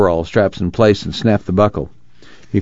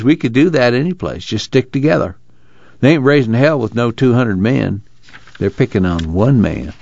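lightly voiced folksy camp worker, pitched up; camp man arguing; 4 semitones higher than usual. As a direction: argue the union's case in a rural voice.

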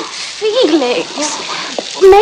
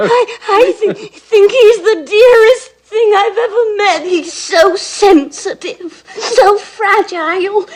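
weepy gush; 3 semitones higher than usual. Acted. Gwen weepy over Felix.

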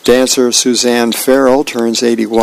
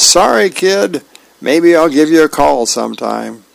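acted apology; 4 semitones higher than usual. Sister to faraway kid after the ball went flat, apologetic call. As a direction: call a mild apology over the water. Sister calls across ocean, plan failed.

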